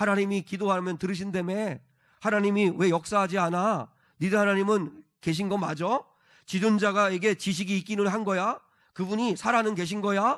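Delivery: mocking taunt.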